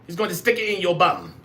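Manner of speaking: mock British banter with tag questions; British accent. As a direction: play a cheeky British bloke. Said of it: "You talking in a British accent".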